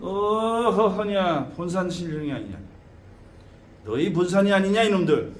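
long opening call, then a falling line; ancestral spirit proclamation. Shown as a demonstration. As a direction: intone it as an elder spirit declaring himself. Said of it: "사신 할아버지면".

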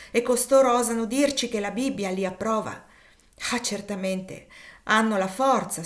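bitter outburst. Acted. George venting bitterness to his wife about injustice, with mounting indignant anger. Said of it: "per sfogare la sua amarezza".

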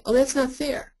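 lightly played kid complaining; whiny kid. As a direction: whine it like a kid who got the smaller slice. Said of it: "'cause that's what kids say".

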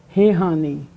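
"He honey" with the N nasalised; nasal N. Shown as a demonstration. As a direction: say "He honey", letting the N resonate in the nose. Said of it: "Nasal N".

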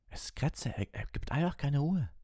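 put-on high, strained boy's voice; a boy struggling, frantic; distressed boy. A narrator's reading. Ron struggles with his panicking rat, strained.

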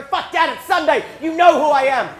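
acted indignant kid; exasperated. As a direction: protest in loud exasperation. Exasperated reply to dad as minister.

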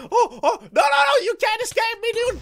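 high, loud cry in hot pursuit; frantic shout. Real, not acted. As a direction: yell after a fleeing foe. Chasing an escaping enemy.

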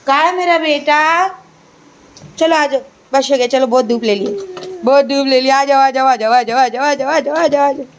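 mother calling her son indoors. Real, not acted. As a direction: coax the little one inside, sing-song.

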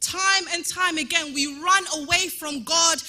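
fiery preaching. Acted. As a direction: preach it out to the whole church. Preaching at full force.

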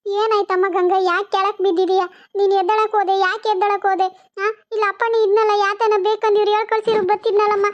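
rushing in to scold her for getting up; alarmed scolding. Acted. Elder finds Ganga fallen and scolds her, loud and alarmed.

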